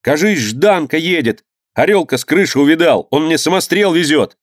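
high-pitched eager news; excited boy. Acted. Boy tells his uncle the boat is coming, excited. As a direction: tell it in boyish excitement.

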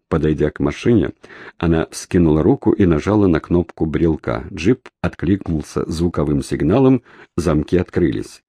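ordinary delivery

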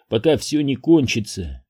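ordinary delivery, nothing marked

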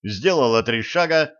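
usual speaking voice

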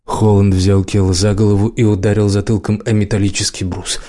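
plain reading voice

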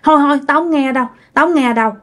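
quick, nervous "I don't want to hear it"; scared refusal. Retold or imitated. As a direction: rush it out like a spooked kid covering their ears. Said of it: "bạn nghe xong bạn sợ".

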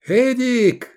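high, loud call across the fight; shouting a name. Acted. Iskander shouting to Edik mid-battle. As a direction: call him out sharply. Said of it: "раздался крик Искандера".

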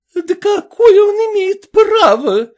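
loud, high, tearful outrage; an old princess crying out at injustice; shrieking tearful protest, pitched high; exclaiming. A narrator's reading. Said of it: "воскликнула княжна".

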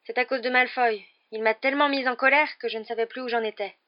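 high-pitched, upset complaint; plaintive, self-reproaching; moaning. A narrator's reading. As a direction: fret aloud in dismay. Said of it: "gémit Hermione".

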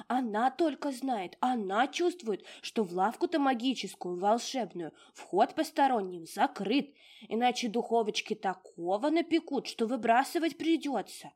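high, loud fussy house-spirit voice; a tiny old domovushka fussing over her mistress; high bustling little house spirit. Acted. Domovushka explaining.

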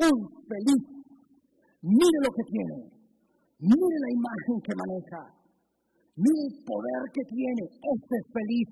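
loud, high preaching voice; fiery preaching. Real, not acted. Pastor thundering at his church about the proud. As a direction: call it out to the congregation.

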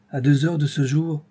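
put-on Robert repeating the accusation to the trembling old man; accusing and pitiless. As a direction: repeat it like a charge. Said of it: "la voix accusatrice et sans pitié".

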